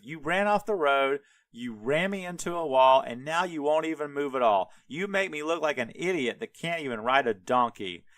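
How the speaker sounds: mock-heated tirade at a donkey; hammed-up quarrel with punched words; retold arguing. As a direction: argue back, piling up grievances. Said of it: "having a full-on fight conversation".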